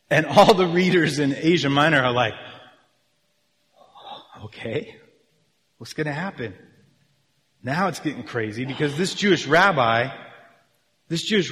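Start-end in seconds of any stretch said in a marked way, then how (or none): 4.4-6.5 hushed suspense. Retold or imitated. Imagined readers awaiting the outcome.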